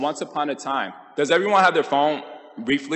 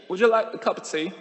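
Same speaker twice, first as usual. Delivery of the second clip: put-on British accent; 6 semitones higher, faster than usual. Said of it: "British accent".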